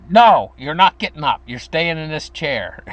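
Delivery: mother overruling her protesting son; firm mother. Retold or imitated. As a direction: cut him off and keep him seated. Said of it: "I'd say".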